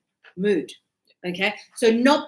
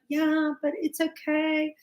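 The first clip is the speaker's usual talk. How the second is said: imitated soothing husband; 3 semitones higher than usual. Husband soothing his crying wife.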